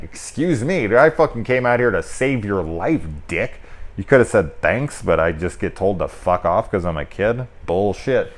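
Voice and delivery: mildly indignant, mock-offended rant; lightly voiced snarky kid telling him off; sarcastic kid. Kid scolding the ungrateful man, sarcastic indignation. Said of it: "just sitting there like".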